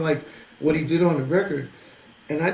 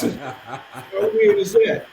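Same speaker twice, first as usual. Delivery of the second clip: amazed; 4 dB louder, much slower than usual. Real, not acted. Amazed at the coincidence.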